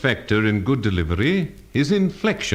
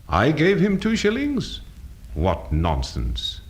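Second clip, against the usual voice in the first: incredulous denial; 6 semitones higher, slower than usual. Shown as a demonstration. Teacher showing changed meaning, incredulous reading. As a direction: question "I gave him two shillings" in disbelief, then drop. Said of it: "different readings of a simple statement".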